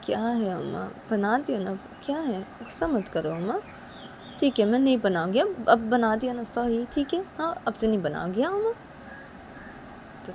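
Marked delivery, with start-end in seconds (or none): 0.0-8.7 higher, coaxing apology; mother-in-law apologizing to angry Uma; apologetic mother. Acted. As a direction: soothe her, say sorry.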